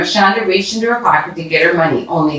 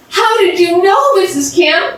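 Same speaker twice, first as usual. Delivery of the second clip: amazed question; 13 semitones higher than usual. Acted. Money found, amazed.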